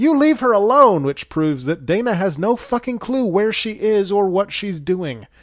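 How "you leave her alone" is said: high, loud yelling. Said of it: "Dana yells".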